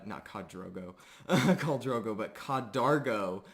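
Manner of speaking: ordinary talk, nothing marked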